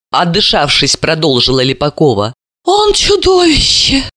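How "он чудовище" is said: slow, high, emphatic cry; outraged denunciation. A narrator's reading. Mother denouncing her son-in-law, outraged. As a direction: stretch it out with horror and outrage.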